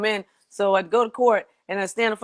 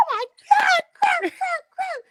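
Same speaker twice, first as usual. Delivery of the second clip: high, slow panicked wail; hammed-up high panic, dragging the words; slower than usual. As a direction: moan it out as the crash sinks in. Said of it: "And I'm like".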